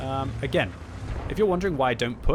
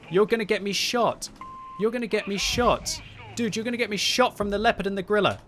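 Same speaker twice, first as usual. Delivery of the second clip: high, loud exasperated yell at a teammate; frustrated yelling; 9 semitones higher, 3 dB louder than usual. Real, not acted. Yelling at a careless teammate, high and exasperated. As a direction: let the frustration boil over, pitched up and loud. Teammate's blunder endangers him.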